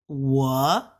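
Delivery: 我 swept upward from low; slow demo of 我 going up; rising tone. Shown as a demonstration. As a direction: let 我 climb to the end. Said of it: "it'll go up".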